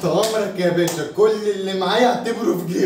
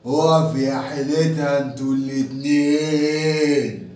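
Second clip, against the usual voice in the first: tough guy voice; 5 semitones lower, slower than usual. Acted. Tough guy stops them.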